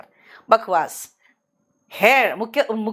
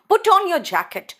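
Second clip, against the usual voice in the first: slow example; 7 semitones higher, much slower than usual. Shown as a demonstration. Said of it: "अगर मैं कहूँगी".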